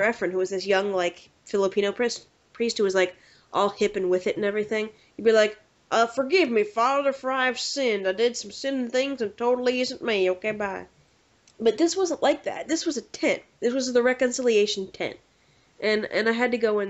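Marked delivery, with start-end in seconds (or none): 5.9-10.9 lightly put-on penitent voice; mock confession in a disguised voice. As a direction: get it over with and get away. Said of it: "modify your voice if you wanted".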